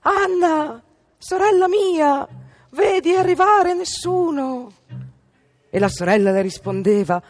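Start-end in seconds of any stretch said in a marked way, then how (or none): 0.0-4.7 high, slow, drawn-out call. A narrator's reading. Wife calls to sister on the tower, calling out. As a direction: call up to someone far above. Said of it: "le gridava di quando in quando".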